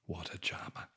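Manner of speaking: soft dry whispered jab; dry sarcasm. Real, not acted. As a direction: mutter it sarcastically. Sarcastic aside on toad son.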